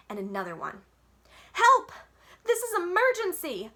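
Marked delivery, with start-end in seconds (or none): 1.5-3.7 very high, very loud scream for help; desperate yell for help. A narrator's reading. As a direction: shriek it into the phone. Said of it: "I yelled".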